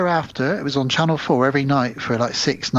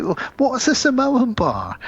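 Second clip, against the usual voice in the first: slow put-on Statham; 10 semitones higher than usual. Statham quote repeated.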